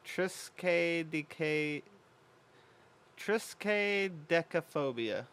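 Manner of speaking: triskaidekaphobia spelled out slowly, syllable by syllable; careful pronunciation. Shown as a demonstration. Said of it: "If I actually pronounce that correctly".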